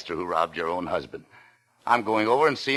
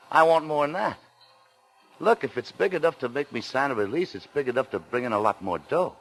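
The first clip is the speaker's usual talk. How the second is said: much higher, pushing voice; bully him for more; angry threat; 5 semitones higher than usual. Acted. Greedy threat in quarrel.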